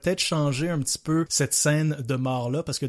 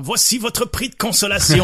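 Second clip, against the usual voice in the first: Red Skull; 6 semitones higher, 7 dB louder than usual. Retold or imitated. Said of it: "il fait comme genre".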